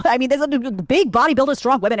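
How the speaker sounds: giggling at her own joke; laughing. Real, not acted. Laughing while joking about women's strength, giggly.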